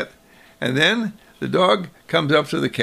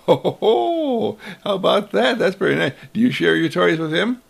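jolly mother; 5 semitones higher than usual. Acted. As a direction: chuckle it out heartily. Mother's amused reply.

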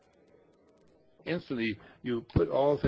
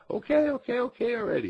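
mock exasperation; 11 semitones higher, 3 dB louder than usual.

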